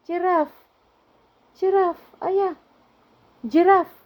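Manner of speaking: put-on coaxing toddler voice. Shown as a demonstration. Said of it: "coaxing toddler to say word".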